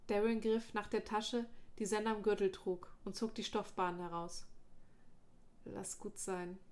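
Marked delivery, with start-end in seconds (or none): 5.7-6.6 soft, faint and tired; weak voice. Acted. Dying friend trying to stop Darren, weak and soft. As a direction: let it fade out, much softer. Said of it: "mit schwacher Stimme".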